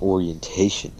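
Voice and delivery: mildly amused questioning repeat, rising; amused echo. Retold or imitated. Teacher echoing a student's question, mildly amused. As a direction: echo it back as if it's kind of funny. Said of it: "Kinda funny, he's like".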